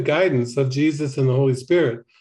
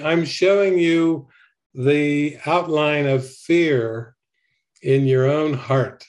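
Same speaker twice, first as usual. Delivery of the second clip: calm; slower than usual. Retold or imitated. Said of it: "Jesus said very calmly".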